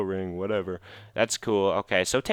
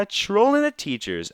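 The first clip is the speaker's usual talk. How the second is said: high, laughing take on the title; giggly title callback; 11 semitones higher, 4 dB louder than usual. Real, not acted. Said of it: "will be called".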